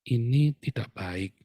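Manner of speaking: slow, measured firmness; firm. Shown as a demonstration. Parent correcting a child the next morning, firm. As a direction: lay it down slowly and firmly. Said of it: "Anda ngomong dengan tegas".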